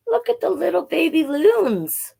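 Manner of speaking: high, cutesy cooing voice. Acted. Reading to kids, cooing over the baby loons. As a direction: gush over the baby birds like a kid.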